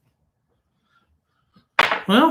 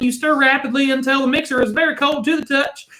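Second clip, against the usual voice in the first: lightly voiced Indian accent read, higher; playful Indian accent ad read; mock Indian accent; 8 semitones higher than usual. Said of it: "It sounds like you were trying to do, be Indian".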